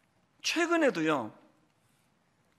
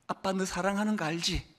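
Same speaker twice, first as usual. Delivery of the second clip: tender father; 2 semitones lower, 4 dB quieter than usual. Retold or imitated. Father tells daughter he loves her.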